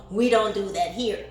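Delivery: high, loud hype shout; fired up. Real, not acted. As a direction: boast with big energy. Fired-up pep talk.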